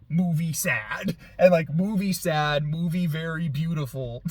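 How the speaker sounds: lightly voiced broken Tarzan speech, near his own voice; a hint of caveman Tarzan, playful; Tarzan talk. Vlogger jokingly explains why the film moved him, in light Tarzan talk. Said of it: "I don't know why I'm talking, like, very Tarzan".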